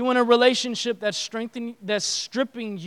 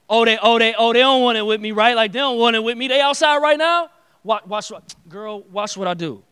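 cocky dude bragging; 7 dB louder, faster than usual. Retold or imitated. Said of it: "regular, like, typical dude response".

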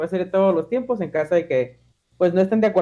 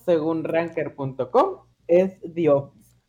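dramatic announcer; slower than usual. Acted. Host reveals number one.

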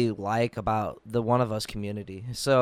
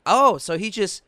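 mock-sarcastic, higher and louder; 7 semitones higher, 5 dB louder than usual. Retelling a jab at a family event, very sarcastic. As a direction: lay the sarcasm on thick. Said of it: "in the most sarcastic tone".

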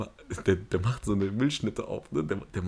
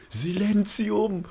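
high, long-drawn yelled command; loud mock shout for silence; shouting teacher; 11 semitones higher, 5 dB louder, much slower than usual. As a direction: imitate a teacher's squeaky yell, stretching the word. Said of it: "Und der schreit".

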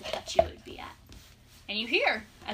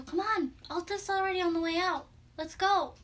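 a touch higher, coaxing; lightly voiced princess; 4 semitones higher than usual. Princess telling player to come along, lightly coaxing. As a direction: lightly voice the young guide, higher.

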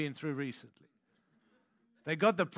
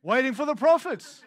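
laughing through a sheepish admission; 3 semitones higher, 6 dB louder than usual. Retold or imitated. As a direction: say it louder, breaking into a laugh. Sheepish punchline of retold prayer.

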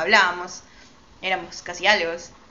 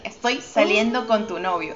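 slow blunt confession; slower than usual. Shown as a demonstration. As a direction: spell out "Estoy saliendo con tu novio" slowly and evenly. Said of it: "Así, así lo dije".

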